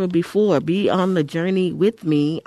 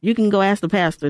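raised, louder, quick mock quote; higher and hurried, voicing other people; imagined churchgoers; 4 semitones higher, 4 dB louder, faster than usual. Host quoting people who'd just book the pastor, imitating them. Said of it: "they were like".

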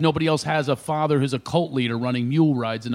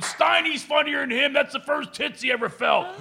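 higher, rowdy ribbing voice; drunk heckling friend; 12 semitones higher than usual. Retold or imitated. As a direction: razz him from the front row. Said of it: "They're going".

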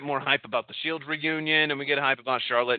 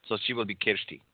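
badly faked German accent; attempted German accent; 2 semitones lower, 5 dB quieter than usual. Host saying girlfriend's name, in a silly German accent. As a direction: try a German accent and miss. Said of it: "say her name in a German accent".

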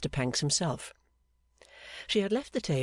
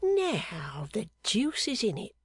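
slow whispered mutter; 6 semitones higher, slower than usual. Acted. Clerk puzzling over her palm, muttering in a whisper. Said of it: "muttered Pancks".

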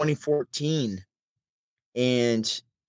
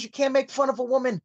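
higher, put-on comedian voice; comedian's punchline voice; 11 semitones higher than usual. Comedian on stage ribbing the crowd, higher put-on voice. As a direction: land the joke like the comedian on stage. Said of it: "He goes".

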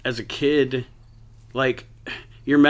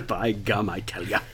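put-on old prospector; 4 semitones lower, 6 dB quieter than usual. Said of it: "you old so-and-so".

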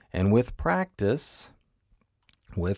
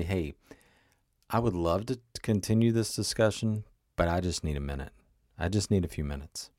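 calm time-out request; 3 semitones lower, 3 dB quieter than usual. Pretend. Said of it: "you can just say".

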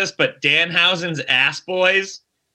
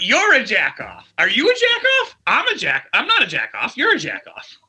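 mock wrestler promo; 4 semitones higher than usual. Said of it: "Let me get this straight".

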